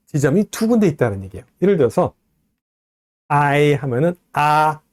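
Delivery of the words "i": I said as a long 아 gliding into 이; two joined vowels. Shown as a demonstration. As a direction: glide slowly through I, ah to ee. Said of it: "연결돼서 I 되기 때문에".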